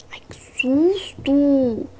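slow breathless whisper after a scare; startled whisper. Real, not acted. Jump scare in horror game. (susto sussurrado)

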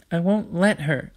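high-pitched little-sister refusal; defiant Olive. A narrator's reading. Olive refuses to give it up, high and defiant.

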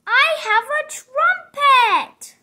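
slow, loud and proud; proud announcement. Acted. Piggy proudly announcing her trumpet to Gerald, slow and loud. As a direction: announce it like big news.

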